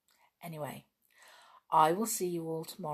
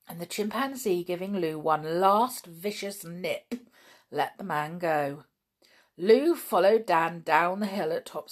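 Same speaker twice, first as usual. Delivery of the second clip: measured storyteller settling after the action; animated narration easing into calm; story narration. A narrator's reading. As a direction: read on to children, expressively.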